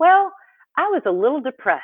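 put-on cute Mississippi accent. Speaker retelling a woman's answer when asked, imitating her Mississippi accent. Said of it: "she has this cute Mississippi accent".

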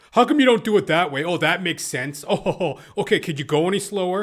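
needling, taunting, high, loud mocking jeer. Retelling how a maintenance man talked at them: imitating someone mocking. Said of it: "he was kind of mocking me".

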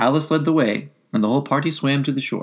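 ordinary delivery

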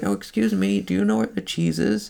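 put-on very high, creaky little old lady voice. Imagining a customer asking for directions, little old lady voice. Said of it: "Is it a little old lady?".

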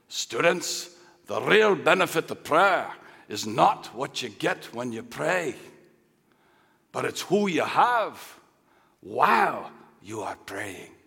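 put-on old-fashioned Scottish accent. Retelling what he always used to tell the students, in his old Scottish brogue. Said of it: "in his old Scottish brogue".

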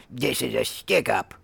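rough, creaky rasp like sandpaper. The speaker voices Sketchy in a staged scene, Sketchy voice in a sandpaper rasp. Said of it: "said in a sandpaper rasp".

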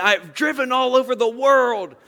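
put-on teasing yelled-out ribbing. Retelling what somebody yells out at every family get-together, retelling a yell. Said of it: "somebody just yells out at some point".

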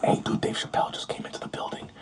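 close, hushed, secretive whisper. Retelling a guy at the Comedy Store whispering in his ear: imitating a whisper. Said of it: "one guy whispers in my ear".

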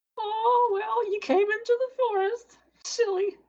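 put-on very high, squeaky old woman voice. Voicing an old woman who greets a tiefling at her door: Advertha old woman voice. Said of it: "why am I a snake?".

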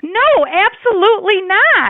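very high-pitched, agitated, worked-up voice. A condo owner refuses the middleman's furniture swap, agitated. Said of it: "you need to relax".

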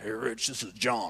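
croaky put-on imitated voice. Retelling a prank call where a caller pretends to be John Wimber: croaky John Wimber voice. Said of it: "pretends to be John".

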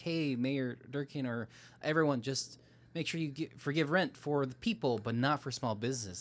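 plain

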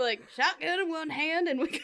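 put-on American Southern accent. Continuing the description of these guys, keeping up a put-on Southern accent. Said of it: "I'm going to keep doing it".

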